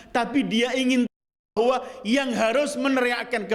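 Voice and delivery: high-pitched, insistent sermon voice; impassioned preaching. Real, not acted. Preacher warning the oppressed who stray from God, high insistent preaching.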